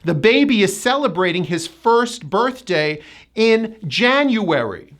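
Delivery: smoother model sentence, clear R in first; careful first and birthday, full January; joined-up example, January as JAN-you-wer-ee; tight ER. Shown as a demonstration. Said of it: "Just like that".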